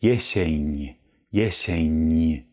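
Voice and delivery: jesień ending in a soft, palatal ń. Shown as a demonstration. Teacher explains the accent mark, then models it. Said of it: "ein weiches N wegen dem Strich".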